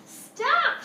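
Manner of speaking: high, loud teacher's yell; alarmed shout, pitch leaping way up. Acted. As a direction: shout urgently to halt a child. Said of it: "she yelled".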